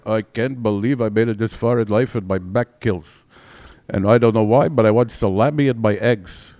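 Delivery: kvetching put-on Jewish accent; old Jewish accent. Comic waking up at fifty as an old Jewish man, kvetching Jewish accent. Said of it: "I'm gonna get the Jewish one".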